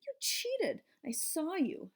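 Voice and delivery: high accusing yell; angry yell. Acted. Gail yelling at her best friend Heidi, accusing. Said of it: "she yelled".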